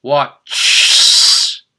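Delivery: "watch" with a bare s hissed on the end, unvoiced; wrong plural watch. Shown as a demonstration. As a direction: say "watch" with only an s stuck on, no extra syllable. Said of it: "it's really hard to do that".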